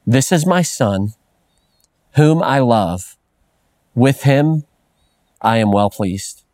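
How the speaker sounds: slow, tender reading of scripture; the Father's slow loving words; God speaking. Acted. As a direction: let each phrase land slowly and gently. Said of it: "here's what he says".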